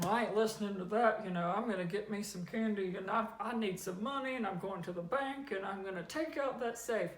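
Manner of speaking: loud, fast, brash I-don't-care voice; mock swagger, loud and quick; defiant rebel. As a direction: rattle it off like a cocky rule-breaker. Mocking a defiant thief.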